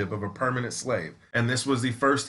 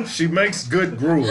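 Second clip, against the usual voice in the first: mock old-time seller; 4 semitones higher, 4 dB louder, slower than usual. Seller role.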